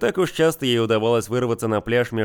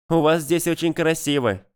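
heartfelt; 5 semitones higher than usual. Acted. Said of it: "с чувством произнесла она".

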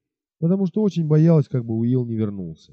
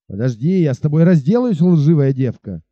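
angry shout; 4 dB louder than usual. Acted. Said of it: "крикнул отвергнутый поклонник".

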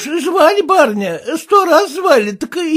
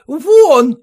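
a short loud mock bark; retold shout; 6 dB louder than usual. Maid imitating the kept woman shouting at her, loud. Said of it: "кричит".

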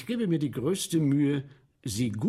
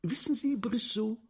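quoting the count; 7 semitones higher than usual. Retold or imitated. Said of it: "Und dann sagt er noch".

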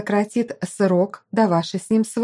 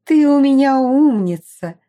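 laughing; 6 semitones higher, 7 dB louder than usual. Acted. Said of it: "рассмеялась мать Лиена".

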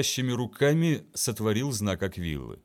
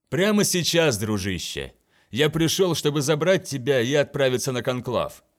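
loud, eager reply to a friend; spring the news with glee; cheerful exclamation; 3 semitones higher, 3 dB louder than usual. Acted.

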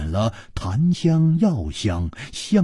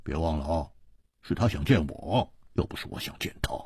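leisurely; 9 semitones lower than usual. A narrator's reading. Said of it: "悠然说".

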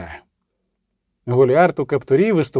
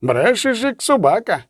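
monk's angry cry; 5 semitones higher than usual. A narrator's reading. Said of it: "крикнув з натовпу чернець".

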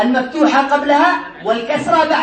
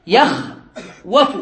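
يخوف drawn out slowly, rising at the end; teacher sounding out يخوف slowly; slow demo; 3 semitones lower, much slower than usual. Shown as a demonstration. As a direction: stretch يخوف so they hear the waw. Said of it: "هنا قال في الحاشية".

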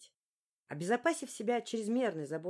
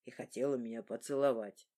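1 teasing father; 7 semitones lower than usual. A narrator's reading.

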